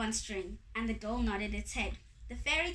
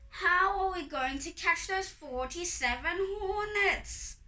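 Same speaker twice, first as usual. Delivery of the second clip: high-pitched wailing question; exasperated high cry for help; worried Anansi; 7 semitones higher, 3 dB louder than usual. A narrator's reading. Anansi anxiously asks his wife.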